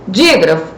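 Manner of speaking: "Dígrafo" com DÍ em pico agudo; sílaba tônica destacada. Shown as a demonstration. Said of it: "Já sabe que é o di". ("Dígrafo" marcando o i aberto da primeira sílaba)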